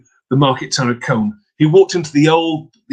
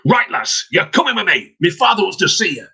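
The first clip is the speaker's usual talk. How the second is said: stern lad; 4 semitones higher than usual. Acted. Son seizing the girl.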